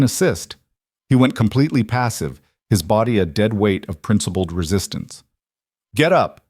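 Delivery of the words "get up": loud, sharp command; barked order. A narrator's reading. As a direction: bark the order. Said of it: "Martinez barked".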